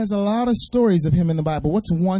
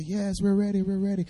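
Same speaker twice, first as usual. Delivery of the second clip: quiet model reply, softer; soft demo answer; 7 dB quieter than usual. Shown as a demonstration. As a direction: show the kids how to answer. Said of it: "This is how you say".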